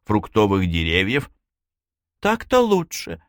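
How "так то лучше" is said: high-pitched sigh of relief. A narrator's reading. Sarai, her tears drying, sighs that it is better. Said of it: "вздохнула Сарай".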